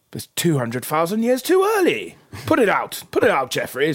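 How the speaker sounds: high, loud mock alarm; exasperated outburst. God tells Jeffrey fire is too early, alarmed. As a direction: shout the order in a flap.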